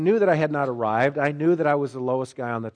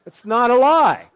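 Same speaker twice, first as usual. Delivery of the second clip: a loud laughing insistence, pitched up; laughing protest; 8 semitones higher, 9 dB louder than usual. Real, not acted. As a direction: laugh through the denial.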